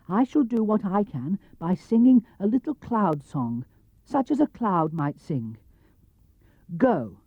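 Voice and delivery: lightly high bear voice; a small bear explaining his plan; Pooh bear. Acted. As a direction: bear asking for a favour. Pooh voice held.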